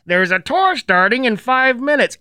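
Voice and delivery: high, projected announcer imitation; loudspeaker announcement. Loudspeaker calling parents to the next tour, announcing. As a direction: mimic a camp tannoy call. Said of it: "you can hear over a loudspeaker".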